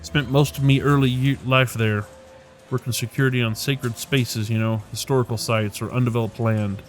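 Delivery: lightly voiced Dubliner; lyrical Irish accent. Rainbow sizing up a stranger, light Irish accent. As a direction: lilt it with a touch of Irish.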